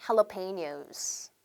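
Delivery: jalapenos very slowly, "ha-la-pe-nyos" with an h. Shown as a demonstration. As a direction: spell out jalapenos syllable by syllable. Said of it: "따라할게요". (jalapenos를 "할라페뇨스"로 아주 천천히)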